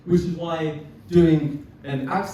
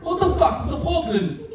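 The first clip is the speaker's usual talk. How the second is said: acted, indignant political tirade; angry rant; 3 semitones higher than usual. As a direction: rant about jobs and war, rising into higher outbursts. Acted political rant from a film speech.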